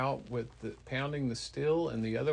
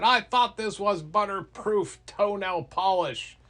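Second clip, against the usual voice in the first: high, loud mock-indignant cry; outraged complaint; 7 semitones higher, 7 dB louder than usual. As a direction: protest like a trickster who got fooled. Loki outraged as polish slides off.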